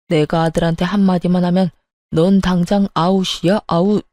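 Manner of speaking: low menacing voice; threatening father-in-law. Acted. Father-in-law threatening daughter-in-law, low menace.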